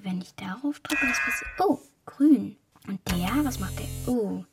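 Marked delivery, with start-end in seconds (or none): 0.0-1.5 whispering. Real, not acted. Alone, figuring out the controls.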